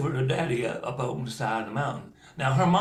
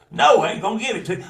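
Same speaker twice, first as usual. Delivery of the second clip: gruff refusal; 6 semitones higher, 9 dB louder, much faster than usual. Acted. Uncle refusing.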